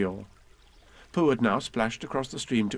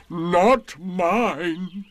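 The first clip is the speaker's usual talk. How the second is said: high, louder proud retort; 7 semitones higher, 6 dB louder than usual. A narrator's reading. Eeyore proudly correcting Pooh about his balloon. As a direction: puff up with pride. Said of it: "said Eeyore proudly".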